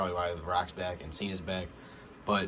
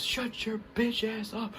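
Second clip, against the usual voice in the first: higher, slow mock trash talk; imitating The Rock; 13 semitones higher, slower than usual. Vlogger quoting The Rock to Austin Theory, mock trash talk. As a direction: put on the Rock's voice and drag the insult out.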